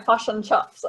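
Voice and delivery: shaky attempt at New Zealand "fush and chups"; bad Kiwi accent. Shown as a demonstration. Guest trying again for hosts, badly done Kiwi accent. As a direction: try a Kiwi "fish and chops" with the vowels flattened. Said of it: "I can't do it. It's so bad".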